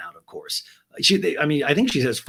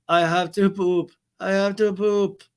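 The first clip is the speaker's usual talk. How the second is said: put-on whiny little kid; 7 semitones higher, 3 dB louder, slower than usual. Kid with underwear down.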